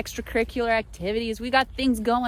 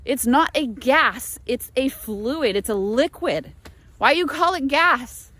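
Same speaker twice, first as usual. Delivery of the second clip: imitating Luca; 3 dB louder than usual. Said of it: "He was like".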